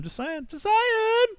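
high, slow sing-song taunt; teasing singsong. Acted.

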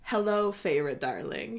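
a hint of a seductive purr. Reading out Rhysand's greeting to Feyre, a light purr. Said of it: "he purrs".

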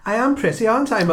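put-on high, laughing childish voice. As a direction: play a vain child, giggling. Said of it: "made me think of Stephen Moore".

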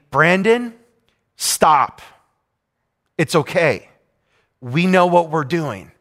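measured, firm telling-off with long pauses; stern nurse. Retold or imitated. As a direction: say it slowly and sternly, letting each phrase land. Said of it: "had to say sternly to me".

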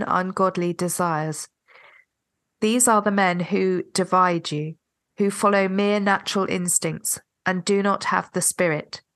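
measured Bible reading, slightly nasal; scripture reading. Acted. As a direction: read the passage aloud reverently. Reads scripture aloud.

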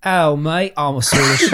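mock Swedish accent. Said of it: "What do you want me to say?".

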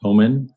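Poemen with a long OH first, POH-men, voice lifting; testing a pronunciation. Shown as a demonstration. Group leader weighing the saint's name, tentative pronunciation. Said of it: "with the pronunciation".

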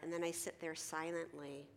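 ordinary talk, nothing marked

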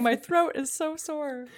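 imitating a sore throat. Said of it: "I think Sarah was just saying".

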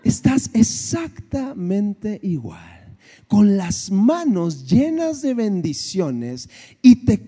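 slow, lightly voiced fatherly God; a mild, unhurried voice of God, lightly done; God speaking. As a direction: gently correct him like a father. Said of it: "Me dijo".

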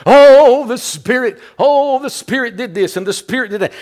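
lampoon an overexcited worshipper who keeps crying out about the Spirit; mocking a charismatic churchgoer. Preacher mocking churches that fixate on the Spirit, in a gushing mock voice. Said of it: "they place emphasis on the Spirit".

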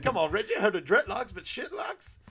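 high, loud heckle rising at the end; mock taunt. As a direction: goad him like a roast comic. Acted taunt from stage.

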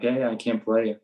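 casual, matter-of-fact coach; nonchalantly breaking news to a player. Retold or imitated. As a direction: deliver it offhandedly, voice at everyday level. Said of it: "I'm just nonchalantly like".

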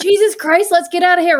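high, punchy Maine accent, lightly put on; playful mock Maine accent exclamation. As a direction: blurt it like a Mainer among her people. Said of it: "I start using words that I don't normally use".

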